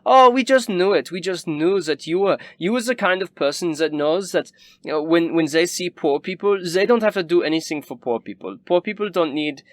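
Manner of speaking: very high, gushing snob; a fawning aristocrat sneering at the poor; Wilhelm's voice. Acted. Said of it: "he kinda pats you gently on your hand and says".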